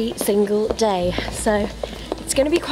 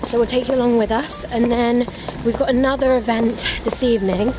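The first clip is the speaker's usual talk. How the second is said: out of breath. Real, not acted. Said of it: "I'm out of breath".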